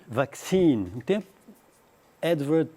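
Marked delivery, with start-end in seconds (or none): 0.1-0.9 vaccine stressed on the last syllable, "vacCINE"; American vaccine. Shown as a demonstration. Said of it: "acento da palavra".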